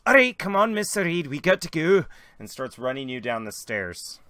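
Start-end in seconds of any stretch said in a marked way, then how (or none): 0.0-2.0 high, loud, hurried urging; urgent Irish guy. Acted. Irish guy rushing Mister Reed down stairs, urgent and loud. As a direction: hurry the captain out the door. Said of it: "the Irish guy runs up to you and goes".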